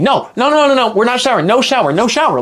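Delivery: panicked inner refusal, half-voiced; inner screaming. Refusing the shower in his head, mock inner scream. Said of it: "I'm just screaming".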